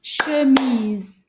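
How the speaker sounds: "Chemise" beaten out loudly in syllables; clapped syllables. Shown as a demonstration. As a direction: give each syllable of "Chemise" a firm beat. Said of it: "see if we can clap that one".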